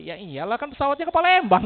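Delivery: sarcastic inner voice. Retold or imitated. Passenger thinking back at a nosy seatmate, sarcastic. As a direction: scoff like the answer is painfully obvious. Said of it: "Dalam hati".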